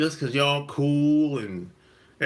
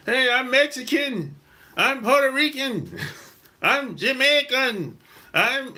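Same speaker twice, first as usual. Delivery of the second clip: mocking quick claims, pitched higher; mock protesting; 6 semitones higher, slower than usual. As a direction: play people eagerly disowning to the cops. Acts people disowning blackness to police.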